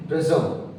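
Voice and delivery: प्रिज्म as two beats, "priz-um"; unwritten vowel sounded. Shown as a demonstration. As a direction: add a short uh before the m in प्रिज्म. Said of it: "तब भी उसका sound आ रहा है".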